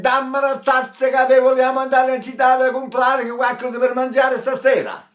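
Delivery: high, loud, ringing Italian speech; clear projected Italian. Shown as a demonstration. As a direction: speak the Italian clearly to the back row. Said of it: "Instead of saying".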